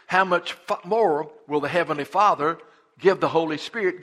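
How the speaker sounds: solemn Bible reading with a loud "Knock"; scripture reading. Acted. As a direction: read the promise with weight. Reads scripture aloud.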